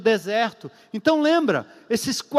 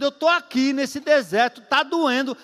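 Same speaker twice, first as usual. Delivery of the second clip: raised pitch, drawn-out plea; pained protest to God; 4 semitones higher than usual. Acted. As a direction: act out a complaint in prayer. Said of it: "não vai brigar com ninguém". (lamento encenado diante de Deus)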